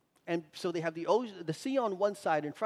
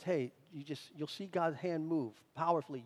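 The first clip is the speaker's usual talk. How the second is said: gentle reassurance; 2 semitones lower, 5 dB quieter than usual. Retold or imitated. Moses reassures the frightened people.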